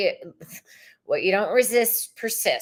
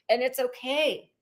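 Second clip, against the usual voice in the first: whispered reassurance; 4 semitones higher than usual. Real, not acted. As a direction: whisper it gently. Soft repeat of reassurance.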